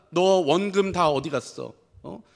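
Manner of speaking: slow, pointed mock scolding of the son; a hypothetical father pressing his returning son, half-mock stern; mock stern question. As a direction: drag it out like a cold, accusing father. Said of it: "아버지가 뭐라고 이야기합니까?".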